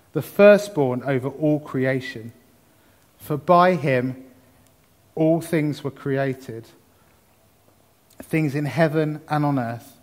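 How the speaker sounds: measured scripture reading with long pauses. Real, not acted. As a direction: take it phrase by phrase, letting each one settle. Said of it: "a bit slower".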